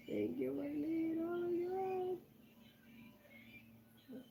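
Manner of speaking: hushed, high-pitched oh my God; awed squeak. Real, not acted. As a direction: squeak out thanks, overwhelmed. Squeaks thanks at a gift.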